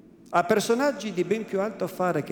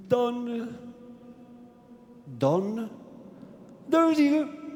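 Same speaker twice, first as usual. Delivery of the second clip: hurried forced stammer; 6 semitones higher, much slower than usual. Acted. Frightened priest forced to blurt out the name, rushed stammer. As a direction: blurt out each Don, rushing the syllables. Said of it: "Pronunziò in fretta il forzato, precipitando quelle poche sillabe e strisciando le consonanti".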